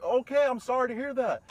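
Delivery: high, loud retort in an acted quarrel; heated comeback. His side of acted quarrel.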